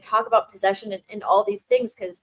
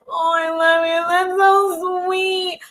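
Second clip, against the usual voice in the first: delighted gush; 8 semitones higher, 6 dB louder, much slower than usual. Real, not acted. Reacting warmly to a viewer's message.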